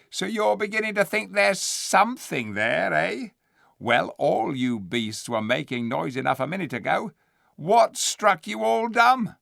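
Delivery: high, loud scheming ape voice; sly ape. Acted. The ape answering the dwarfs, sly and loud. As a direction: slick and sneering.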